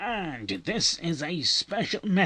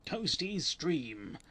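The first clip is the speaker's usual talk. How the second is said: British accent; 6 dB quieter than usual. Real, not acted. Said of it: "with the British accent".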